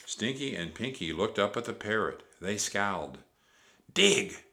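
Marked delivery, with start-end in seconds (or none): 3.9-4.4 loud, high barked order; sharp shouted command; pirate captain shout. A narrator's reading. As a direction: bellow it at your crew. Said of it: "shouted Captain Bones".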